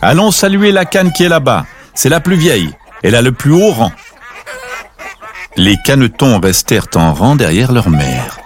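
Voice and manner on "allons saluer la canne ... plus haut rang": higher, bright motherly voice; lightly voiced mother duck guiding her chicks. Mother leading ducklings to greet the eldest, higher voice. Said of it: "Puis elle ajouta".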